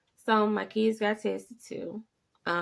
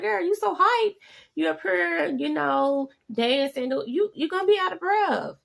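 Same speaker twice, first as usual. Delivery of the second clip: much higher and louder, laughing scold; playful teasing; 10 semitones higher, 6 dB louder than usual. Retold or imitated. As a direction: tease her for bouncing around. Teasing her energetic daughter.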